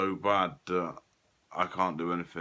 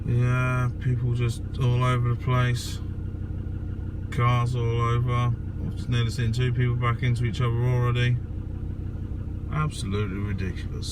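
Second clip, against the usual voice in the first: louder over outdoor noise; raised voice in a busy car park; 6 semitones higher, 7 dB louder than usual. Real, not acted.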